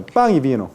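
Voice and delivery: "pan y vino" with a back-of-mouth ng in pan; velarized n. Shown as a demonstration. Teacher shows lowland Spanish to class, "pan" velarized to "pang". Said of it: "Igual que coreano".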